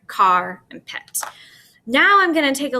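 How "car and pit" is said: "car and pit" with each part set apart, slowly; split syllables. Shown as a demonstration. Teacher pointing out the syllable break, slowly split. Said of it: "the syllable break is right there".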